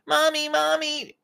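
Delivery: put-on high-pitched, drawn-out kid whine; whiny yelling child. Shown as a demonstration. Child runs yelling to mom about brother, whining. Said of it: "we don't wanna whine".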